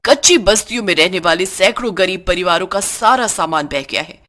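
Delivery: formal news anchor delivery; news read. Acted. News bulletin on shop radio. (समाचार वाचक की शैली में)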